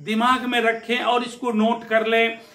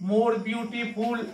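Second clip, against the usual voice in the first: very slow, drawn-out teacher's answer; slow model answer; 4 dB quieter, much slower than usual. Shown as a demonstration. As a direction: stretch more beautiful out so pupils can write it. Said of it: "क्या होगा?".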